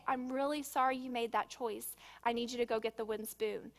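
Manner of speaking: put-on even, calm correction of a child; calm parent voice. Shown as a demonstration. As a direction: state it evenly, without anger. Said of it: "much more effective to say".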